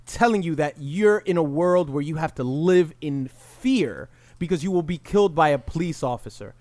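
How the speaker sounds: ordinary talk, nothing marked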